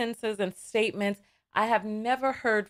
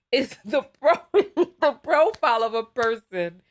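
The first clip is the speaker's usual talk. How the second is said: laughing. Real, not acted. Host laughing while explaining.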